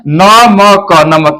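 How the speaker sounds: letters drawn out one by one; slow spelling-out. Shown as a demonstration. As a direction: sound out each letter slowly. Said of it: "ये तीन व्यंजन है".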